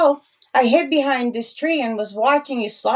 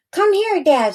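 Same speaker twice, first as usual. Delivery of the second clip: a lightly voiced, higher excited call; eager to show his dad; 5 semitones higher than usual. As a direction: snow boy calling his dad, mildly excited. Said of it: "in an excited voice".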